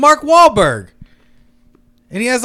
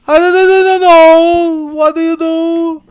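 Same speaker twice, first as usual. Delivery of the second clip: bad Hispanic accent; 5 semitones higher than usual. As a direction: wail it in a terrible Hispanic accent. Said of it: "the worst Hispanic accent".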